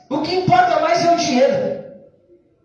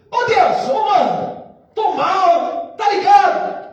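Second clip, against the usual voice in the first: slangy plea to God; 3 semitones higher, slower than usual. Shown as a demonstration. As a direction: call out to God like a buddy, hurting. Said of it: "Chega assim". (desabafo de mano, mais alto)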